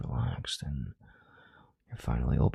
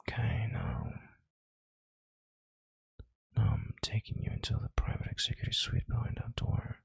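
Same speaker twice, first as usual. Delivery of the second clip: whispering; 7 semitones higher than usual. Acted. Seductive move to private suite.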